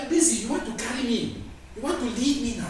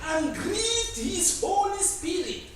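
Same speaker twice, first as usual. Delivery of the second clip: higher, louder, slow preaching cry; fervent proclamation; 11 semitones higher, 3 dB louder, slower than usual. Acted. Preacher crying out Israel's rebellion, raised and slow. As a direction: cry it out over the congregation.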